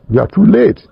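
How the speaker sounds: sharp high rise of dismay; high-pitched protest; exclaiming too late. Retold or imitated. Teacher refusing late admission.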